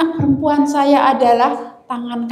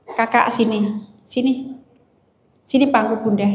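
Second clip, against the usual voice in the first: gentle call. Retold or imitated. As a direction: invite her onto your lap, tenderly. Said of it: "memanggil dengan suara yang lembut".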